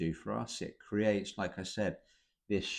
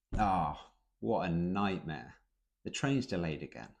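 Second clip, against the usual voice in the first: understated complaint. Shown as a demonstration. Teacher showing the British way to complain, understated. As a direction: shrug it off dryly. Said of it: "We understate it".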